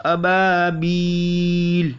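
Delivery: अबाबील with बा drawn out one alif; long बा. Shown as a demonstration. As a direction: stretch अबाबील's middle vowel. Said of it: "इसको खींचना है एक अलिफ तक".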